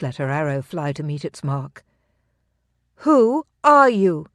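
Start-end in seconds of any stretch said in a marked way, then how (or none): 3.0-4.3 high, loud, slow fierce demand. A narrator's reading. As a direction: press him for the truth again. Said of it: "she demanded once more".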